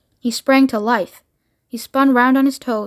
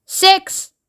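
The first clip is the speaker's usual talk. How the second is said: countdown voice; 7 semitones higher than usual. Acted. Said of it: "said the voice".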